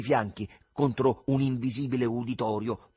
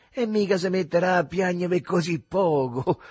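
jovial; 8 semitones higher, 5 dB louder than usual. Acted. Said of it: "fece cordialone".

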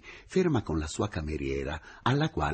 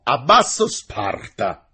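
slow, loud, high mock slogan; exclaiming; 6 semitones higher, 11 dB louder, slower than usual. A narrator's reading. Engineer leaves the teacher laughing, calls out playfully. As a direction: call it out as a parting cry. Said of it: "esclamò".

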